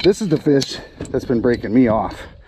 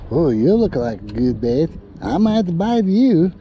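playful fish voice; 5 semitones higher than usual. Acted. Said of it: "It's going".

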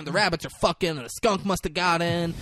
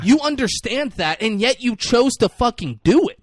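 raised, louder exasperated scolding; mock angry scolding; 10 semitones higher, 6 dB louder than usual. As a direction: chew him out in play.

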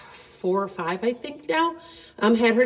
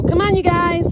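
calling horses; 8 semitones higher, 6 dB louder than usual. Real, not acted.

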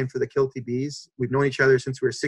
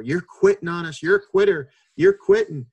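higher, louder accusing yell at the driver; angry yell; 4 semitones higher, 5 dB louder than usual. Retold or imitated. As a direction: hammer him for quitting. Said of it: "starts yelling at the bus driver".

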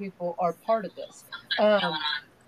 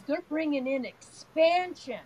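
higher-pitched retold child's announcement; imitating grandson; 6 semitones higher than usual. Grandson telling Nana about the energy, lightly imitated child voice. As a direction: lightly voice a little boy explaining. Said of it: "He goes".

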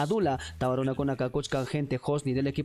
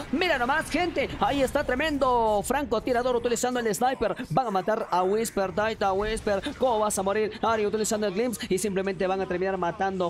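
brisk, driving esports commentary; excited match caster rattling through the action; live play-by-play; 3 semitones higher than usual. Acted. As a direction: call the match live, keeping the energy up.

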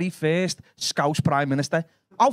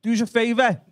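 Scouse Jesus; 5 semitones higher than usual. Acted. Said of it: "And he went".

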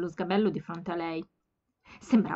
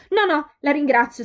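higher, much louder, rushed refusal; all in one breath; 7 semitones higher, 9 dB louder than usual. A narrator's reading. Flustered girl blurting thanks to a stranger, breathless. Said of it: "disse tutto d'un fiato".

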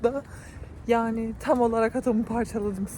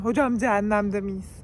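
mock exasperated note; 3 semitones lower than usual. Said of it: "hocaya not bırak dedim".

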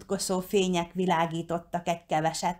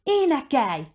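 high, raised urgent order; shouted command; 7 semitones higher, 4 dB louder than usual. A narrator's reading. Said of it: "rákiáltott Rikire". (rákiáltva, parancsolóan)

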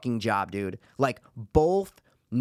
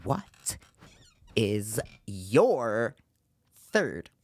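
mock-solemn question; 4 semitones lower, much slower than usual. Host asking co-host for his pick, mock-solemn and halting. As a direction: spell it out word by word with dramatic pauses.

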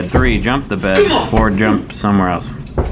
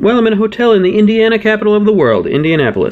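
excited; 5 semitones higher, faster than usual. Acted. Excited fast rant.

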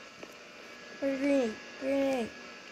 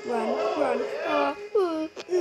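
panicked; 4 semitones higher, 5 dB louder than usual. Real, not acted. Fleeing a monster in game.

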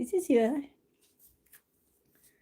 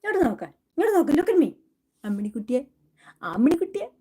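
coaxing call; much faster than usual. Real, not acted. Coaxing cat to look at camera.

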